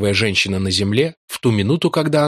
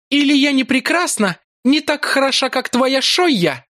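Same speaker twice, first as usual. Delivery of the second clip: seductive priestess voice; 14 semitones higher than usual. A narrator's reading. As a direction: purr it like a cruel seductress. Yolara taunting and tempting. (высокий голос коварной соблазнительницы)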